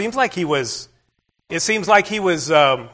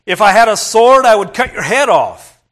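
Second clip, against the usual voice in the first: louder, raised angry retort; mild hammed-up fury of a frustrated rider; angry threat; 3 semitones higher, 6 dB louder than usual. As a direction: threaten the donkey in a temper. Angry Balaam threatens his donkey.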